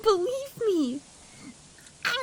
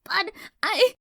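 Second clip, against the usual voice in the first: whispering. Acted. Terrified filly stammering.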